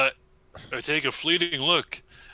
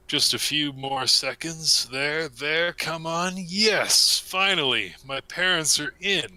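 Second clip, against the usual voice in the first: excited; 4 semitones higher than usual. Acted. Eager waiting then relief.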